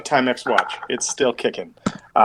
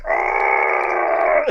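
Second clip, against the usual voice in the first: breathy, lower grunt of rage; hammed-up grunt of fury; angry grunt; 8 semitones lower than usual. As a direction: force the grunt out as he flexes. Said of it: "Bralin stands up and is like".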